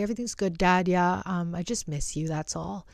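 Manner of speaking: softly retold, holding back tears; imitated choked-up reassurance. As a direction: play down being upset, voice dropping away. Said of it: "I was, like, choking up, almost crying".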